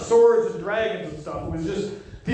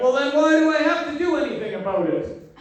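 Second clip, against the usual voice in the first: higher-pitched mock protest; griping comeback in a raised pitch; protesting retort; 6 semitones higher than usual. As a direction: push back at your sister, pitched up. Acted retort to his sister.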